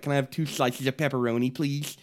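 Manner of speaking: a light lisp on every s; lisping prank caller. Retold or imitated. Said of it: "I would do a lisp voice".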